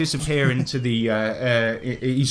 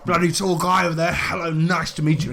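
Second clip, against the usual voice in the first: hearty, swearing colonial gent greeting the party; a lightly voiced jolly British explorer; bluff British adventurer; 4 semitones higher than usual. Willie greets the newcomers, a lightly voiced hearty British gent. Willie reacts to the tall guy.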